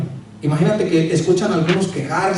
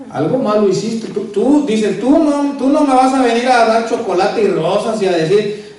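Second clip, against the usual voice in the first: higher, accusing wife's voice; mock-accuse him of hiding something; suspicious wife; 4 semitones higher than usual. Wife suspicious of her husband's chocolates, higher and accusing. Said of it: "cuál es la respuesta de la mujer".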